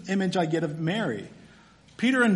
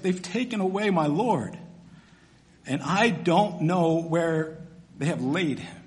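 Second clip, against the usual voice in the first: quavering with tears. Retold or imitated. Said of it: "hear the quavering in her voice".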